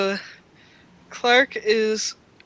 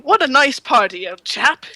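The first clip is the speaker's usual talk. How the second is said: bad English accent; 4 semitones higher, 5 dB louder than usual. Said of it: "just imagine it's a really bad British ac-, English accent".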